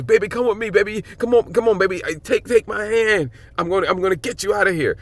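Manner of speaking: a husband pleading with his wife to flee. Retold or imitated. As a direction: beg her to take your hand and come. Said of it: "he's trying to plead with her".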